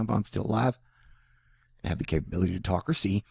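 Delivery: ordinary talk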